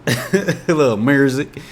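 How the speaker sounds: amused, drawn-out "MUR-zick" for "music"; Memphis pronunciation of "music". Shown as a demonstration. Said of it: "they be saying music".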